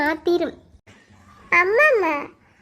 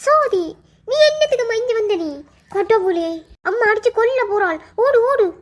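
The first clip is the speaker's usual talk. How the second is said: high, loud anxious scolding; alarmed urging; 4 semitones higher, 5 dB louder than usual. Acted. Aunt warning child that mother will hit, alarmed. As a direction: shoo the child away urgently.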